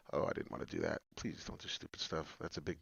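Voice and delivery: very quiet, low aside; muttered self-talk. Real, not acted. Host pleads with his computer after a misclick, muttered. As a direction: mumble it under the breath.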